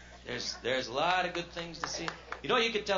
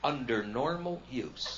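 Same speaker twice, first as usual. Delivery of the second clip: fine-print mumble; much slower than usual. Retold or imitated. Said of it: "a little line of print that says".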